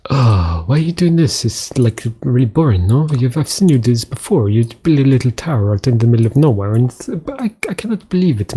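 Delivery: lightly voiced whiny heckler, pitch jumping up; mock complaining viewer. Bored viewer accuses streamer of selling out, lightly mocked complaint. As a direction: play a let-down fan having a moan.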